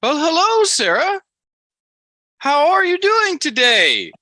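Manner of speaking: very high, loud cartoonish Amish man; Amos, Amish impersonation. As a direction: greet in a piercingly high put-on Amish voice, drawing out the question. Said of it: "your Amos Amish impersonation".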